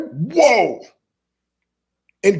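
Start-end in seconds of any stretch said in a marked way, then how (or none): 0.1-0.8 amazed whoa. Retold or imitated. Struck by mom's words.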